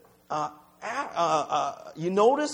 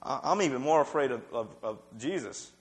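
hushed mock fear; 6 semitones lower, 5 dB quieter than usual. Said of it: "it's like".

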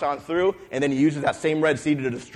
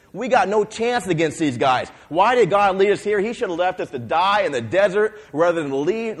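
panicked spies; 4 semitones higher than usual. Acted. Spies back from the land, scared, telling the people: a touch of panic. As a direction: protest in alarm that the land can't be taken. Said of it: "ten of the twelve come back and say".

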